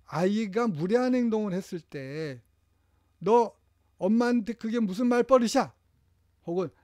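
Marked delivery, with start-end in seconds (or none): 3.2-5.7 higher, louder scolding rebuke; scolding parent. Shown as a demonstration. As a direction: tell the child off sharply. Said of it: "이렇게 확". (꾸짖는 부모 말투)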